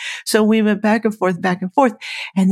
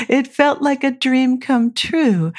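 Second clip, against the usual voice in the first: laughing; 6 semitones higher, slower than usual. Real, not acted. Laughing while recalling the thrill.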